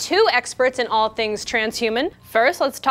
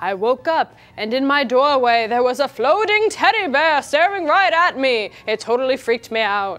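theatrical put-on vampire voice, storytelling style. Reading a listener's scary story aloud, slipping into a vampire voice. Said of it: "I got like vampire voice there for a second".

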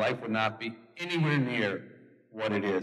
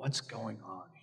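gentle, soft-spoken, really soft and hushed voice; 10 dB quieter than usual. Retelling how a man finally broke a long silence, in a really soft voice. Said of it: "said in this really soft voice".

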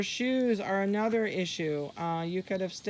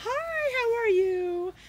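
very high, slow, drawn-out voice; 4 dB louder than usual. Showing what not to say when picking up a puppy, greeting it in a high voice. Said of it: "Don't do that high voice".

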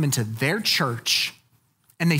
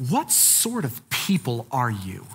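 cutting, contemptuous, scathing and angry; 5 semitones lower than usual. Acting out how a figure in a text says it: acting out scathing anger. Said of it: "here's how I think he's saying it. Hear it in my voice".

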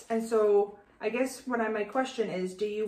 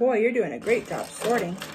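sarcastic tone, louder; 4 dB louder than usual. Praising the other speaker's sorting while they do nothing: sarcastic. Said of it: "I was being sarcastic".

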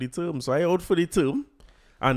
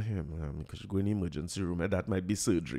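very quiet, gentle, soothing voice; 6 semitones lower, 8 dB quieter than usual. Retelling what Dylan said about the emergency room: imitating speaking very quietly. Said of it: "very, very quietly".

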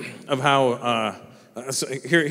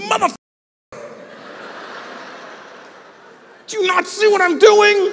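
put-on very high, irritated, annoyed little-girl voice; 4 dB louder than usual. Parent acts out his daughter's reaction to him bursting into her room: mock-angry, as his daughter. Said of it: "she gets pissed".

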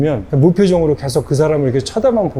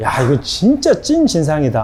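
ordinary delivery

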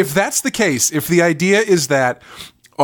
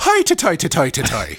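exaggerated, over-the-top mock Irish accent. Describing a film character's lines to a co-host, in an exaggerated irish accent. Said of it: "His depiction of an Irish person".

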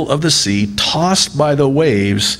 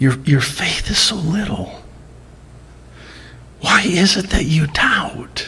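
tender, soft, high-pitched whispered words; 6 semitones higher, 5 dB quieter than usual. Voicing the Savior's words as the speaker imagines them, whispering.

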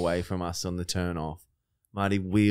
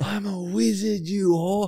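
mock very high, slow, stretched-out scream; 13 semitones higher, 4 dB louder than usual. Retelling how a friend swung a branch and screamed: imitating someone screaming. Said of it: "he just screams".

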